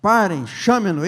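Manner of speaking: Jesus calling for the blind man, moved; emotional command. Acted. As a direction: let the feeling swell into the order. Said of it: "veio uma onda de sentimento naquela hora".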